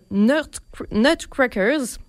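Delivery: slow, careful English-accented title. Real, not acted. Radio host tries the English title in an English accent. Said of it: "désolé pour mon accent".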